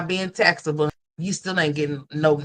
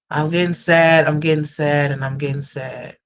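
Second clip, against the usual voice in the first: loud lament; 5 dB louder than usual. Real, not acted.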